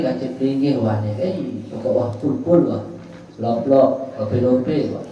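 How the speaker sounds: lightly voiced gushing wife, hammed-up; mock doting wife. Preacher mocks a wife swearing love, mock gushing. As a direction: tease the fawning wife's sweet talk. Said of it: "ente punya istri".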